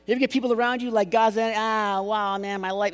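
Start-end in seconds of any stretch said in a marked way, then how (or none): 1.1-2.9 higher-pitched moan, lightly acted; mock complaining. Preacher imitating people around you who complain, moaning. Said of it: "just start complaining".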